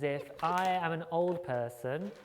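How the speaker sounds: slowed, deliberate speech; talking to a foreigner. Shown as a demonstration. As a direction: stretch every word out. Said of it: "I will speak slowly and loudly as if".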